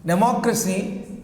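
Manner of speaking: democracy stressed on "moc"; stress on second syllable. Shown as a demonstration. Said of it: "we have the stress in democracy".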